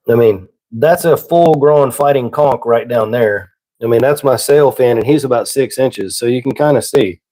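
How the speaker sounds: talking with a sniffly nose; sniffling runny nose. Real, not acted. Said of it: "I'm sorry about the sniffling".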